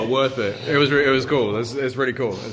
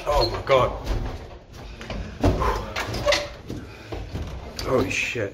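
winded on steep stairs; puffing while climbing; 5 dB quieter than usual. Real, not acted. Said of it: "just take it easy".

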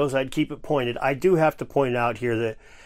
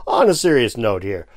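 mock serious; 3 semitones lower than usual. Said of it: "I deal in seriousness here".

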